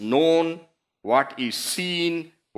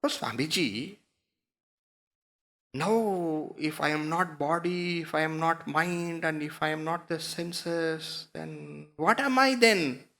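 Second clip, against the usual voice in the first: soft student question, rising at the end; puzzled student; 4 dB quieter than usual. Acted.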